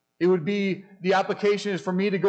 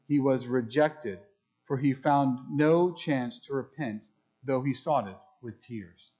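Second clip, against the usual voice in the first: unhurried reading of holy text; scripture reading; 2 semitones lower than usual. Acted. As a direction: read the verse with weight and care. Reads scripture passage.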